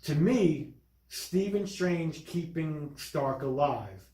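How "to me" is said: ordinary talk, nothing marked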